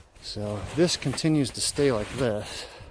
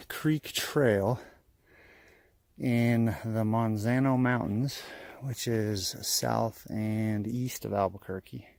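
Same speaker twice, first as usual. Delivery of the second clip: winded from the uphill hike; puffing between phrases; out of breath; slower than usual. Real, not acted. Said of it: "I'm sorry I'm catching my breath".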